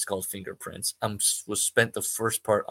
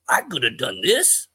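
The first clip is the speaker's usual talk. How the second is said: shocked; 6 semitones higher, 6 dB louder, slower than usual. Acted. Artie shocked at accusation.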